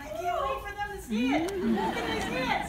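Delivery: high, eager and loud; excited high voice. Retold or imitated. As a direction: squeal it out impatiently. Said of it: "we're like".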